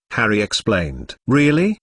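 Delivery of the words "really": excited. Acted. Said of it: "Mister Weasley's voice was excited".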